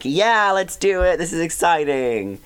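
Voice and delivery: excited cheer. Acted. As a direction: act out getting thrilled mid-game. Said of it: "you're like".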